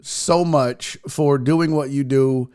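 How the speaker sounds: slow, sincere gratitude; earnest, unhurried thank you; heartfelt thanks. Real, not acted. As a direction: take your time and mean every word. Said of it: "from the absolute bottom of my heart".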